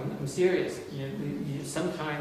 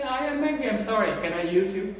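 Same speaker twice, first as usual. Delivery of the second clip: mock sheepish venter; 9 semitones higher, 8 dB louder than usual. Mock apology while venting anger.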